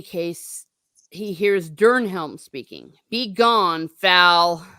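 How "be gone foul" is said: loud, slow defiant command. Acted. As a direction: hurl it at the foe. Eowyn defies the Nazgul.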